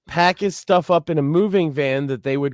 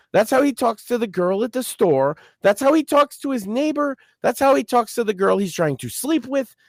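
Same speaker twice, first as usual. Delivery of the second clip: higher-pitched, insistent repetitive list; exasperated rant; 4 semitones higher than usual. Real, not acted. Explaining Dave to Sam, exasperated insistent rant. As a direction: hammer each example home in exasperation.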